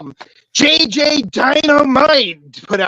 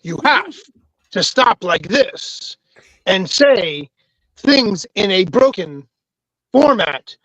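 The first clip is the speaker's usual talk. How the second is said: halting broken phrasing; Shatner impression. Shown as a demonstration. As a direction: pause between words like Shatner. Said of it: "You have to enunciate every third syllable".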